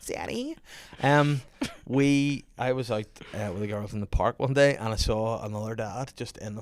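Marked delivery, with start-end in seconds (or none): 0.1-0.6 put-on child calling.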